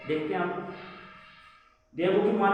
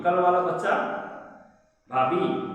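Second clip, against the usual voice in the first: teasing jab, louder on the first words; a light mocking call to the sister-in-law; taunting; 2 semitones higher, 3 dB louder than usual. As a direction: poke fun at the boy in passing. Neighbour taunts boy next morning.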